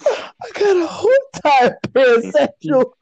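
high-pitched, talking through laughter; laughing disbelief. Real, not acted. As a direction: crack up while getting the words out. Cracking up at unexpected answer.

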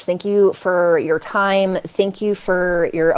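slow, choked-up thanks; real emotion welling up, words slowing; getting emotional. Real, not acted. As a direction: hold back tears while thanking. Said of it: "I'm getting emotional saying this".

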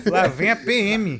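laughing while echoing the line; real laugh through the words; amused listener repeating it through laughter. Real, not acted.

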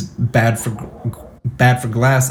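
retold thick Chinese accent. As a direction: quote him with a light Chinese accent. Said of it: "he's got a thick Chinese accent".

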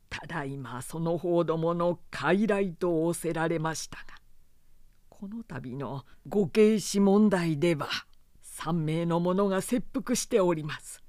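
loyal retainer, heated and loud; impassioned retainer. Acted. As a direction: argue his case with passion. Retainer argues his case.

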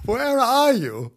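high, loud and slow; calling out. Acted. Wife searching for husband, high slow calling. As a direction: call it out searching the house. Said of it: "she cried".

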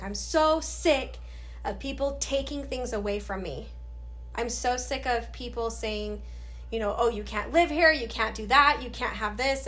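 venting in retold frustration; fed-up outburst. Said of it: "I just lost it".

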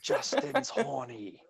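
put-on faraway old man's voice on the breeze; distant call on the breeze. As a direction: call it out like it drifts on the wind. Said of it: "hearing him in the distance, amongst the breeze going".

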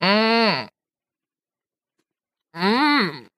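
humming through a mouthful; mouth full. Real, not acted. Both chewing with mouths full.

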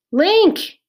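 loud, high-pitched calls of a name; two high hollers, falling at the end; calling out. A narrator's reading. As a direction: call anxiously for someone far off. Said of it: "she called".

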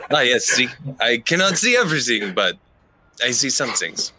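lightly voiced seer in accented English; a touch of a mysterious foreign seer; Adelaide, cautiously self-assured. Adelaide explains what she foresees, lightly accented character voice.

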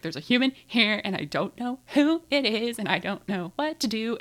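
mock panic about a stranger at the door; retold panic. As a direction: replay the moment you froze at a stranger at the door. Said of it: "My brain ... couldn't handle it".

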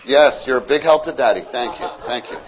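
laughing praise to little helpers; fond chuckling thanks; praising dad. Acted. Father praising sons, laughing.

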